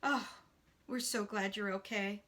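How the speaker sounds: mild, low-key relief; relieved. Acted. Friend to unhurt man, understated relief. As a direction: let out an oh, then ease. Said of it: "really relieved".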